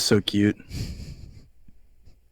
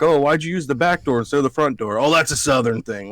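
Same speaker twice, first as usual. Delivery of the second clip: mock Southern accent; 4 semitones higher than usual. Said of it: "puts on a fake accent".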